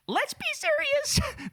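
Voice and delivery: slow, very high mock-serious drawl; sarcastic. Real, not acted. Host scoffing at the article's hopes, slow sarcastic drawl.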